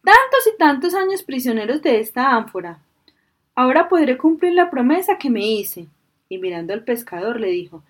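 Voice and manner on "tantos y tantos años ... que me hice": genie. A narrator's reading. Genie voiced in story.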